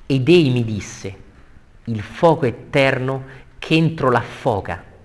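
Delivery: slow, weighty declaiming; verse recitation. Acted. Teacher reading Virgil's answer to the class, slow declamation. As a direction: recite with drawn-out stressed words.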